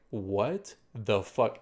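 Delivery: drawn-out, puzzled question; slow disbelief. Retold or imitated. Man feeling watched at the station, slow disbelief. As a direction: slowly stretch out the disbelief. Seeing follower at station, retold.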